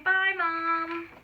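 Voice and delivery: a light piglet voice saying bye; little pigs' goodbye. A narrator's reading. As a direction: wave off mom sweetly.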